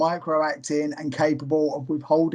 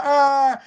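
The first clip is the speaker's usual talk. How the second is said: high, loud fake wail; hammed-up crying impression; mock crying; 8 semitones higher, 7 dB louder than usual. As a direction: burst into a loud pretend wail. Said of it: "my impression of someone crying".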